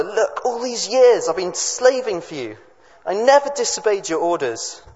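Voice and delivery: put-on furious older son. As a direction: read it as an aggrieved son confronting his father. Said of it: "the older son is furious".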